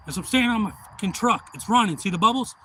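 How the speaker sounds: mock shout. Acted stuck truck owner shouting.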